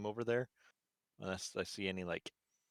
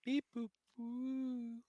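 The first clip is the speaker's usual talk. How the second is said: high, slow droid beeping; robot beeps; 4 dB quieter, much slower than usual. Pretend. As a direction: beep like a little droid. Droid noises imitation.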